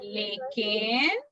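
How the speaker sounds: slow, stretched words with lifted endings; slowly, for repeating. Shown as a demonstration. Teacher leads children repeating the memory verse, slowly. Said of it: "मैं धीरे धीरे बोलूंगी".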